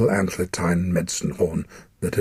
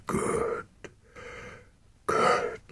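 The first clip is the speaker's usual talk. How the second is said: relieved whisper; 6 dB quieter than usual. Acted. Dying father relieved.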